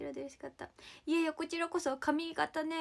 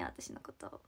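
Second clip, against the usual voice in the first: whispered, lower; coy whisper; 9 dB quieter than usual. Real, not acted. Adding herself to the Osaka invitation, whispered. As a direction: breathe it as a shy aside. Coy aside after request.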